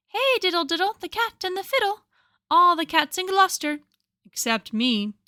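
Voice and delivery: high, quick sing-song cat voice; cat's rhyme. Acted. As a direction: chant it like a wistful cat. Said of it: "said Simpkin".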